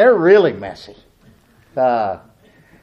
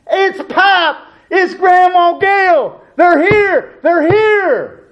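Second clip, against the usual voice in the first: put-on much higher, louder childlike squeal; kids' excited shouts; 13 semitones higher, 5 dB louder, much slower than usual. Children at the window greeting arriving grandparents, much higher and louder. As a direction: squeal like kids spotting grandparents. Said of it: "The kids are saying".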